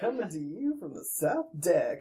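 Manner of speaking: slow seventies DJ impression, amused; drawn-out DJ patter with a laugh in it; the ship's captain. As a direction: imitate a smooth DJ on the ship's speakers. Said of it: "he sounds like a seventies D J guy".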